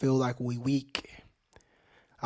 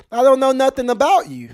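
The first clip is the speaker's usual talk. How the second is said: high, loud disbelief; fed-up shout at the situation; exasperated outburst; 10 semitones higher, 8 dB louder than usual. Real, not acted. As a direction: throw it up high and loud in frustration. Exasperated outburst about Waltz.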